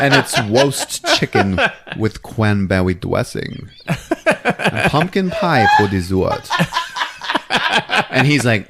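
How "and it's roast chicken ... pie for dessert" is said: laughing retelling. Shown as a demonstration. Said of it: "only when she's telling you what's for dinner".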